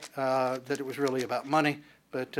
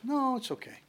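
much higher, breezy brush-off; polite refusal; 9 semitones higher, 5 dB quieter than usual. Acted. Jacob brushing off his brother's offer, high polite decline. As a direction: wave the offer away lightly, voice pitched up.

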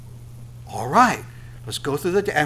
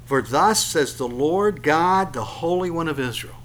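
unhurried scripture reading; slow reading. Shown as a demonstration. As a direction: read slowly, weighing each word. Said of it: "let's just read it slowly".

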